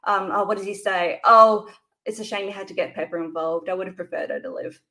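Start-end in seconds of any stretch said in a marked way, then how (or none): 1.2-4.8 calm, matter-of-fact threat; quiet menacing villain. Retold or imitated. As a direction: say it offhand with little inflection. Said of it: "how he's just quiet, menacing, matter of fact".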